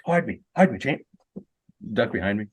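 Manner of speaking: urgent hushed Aussie plea; Australian bloke hiding, pleading; a bartender hiding from a woman, hushed Aussie accent. Retold or imitated. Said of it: "Aussie accent".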